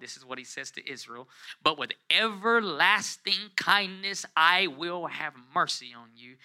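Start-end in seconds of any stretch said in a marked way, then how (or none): 1.6-6.4 high-pitched, measured preacher's reading; scripture proclamation. Acted. Preacher reading God's promise to the congregation, lifted proclamation.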